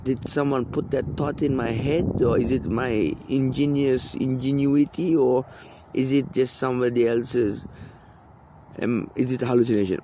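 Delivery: voicing his own thoughts to himself; musing inner voice. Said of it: "And I think to myself".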